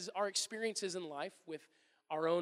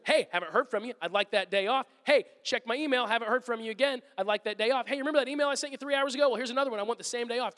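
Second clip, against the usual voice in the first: louder, insistent nagging, building higher; pestering reminder; 3 semitones higher, 4 dB louder than usual. Retold or imitated. Employee nagging the boss for a day off, insistent and louder. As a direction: keep hounding the boss, each reminder pushier.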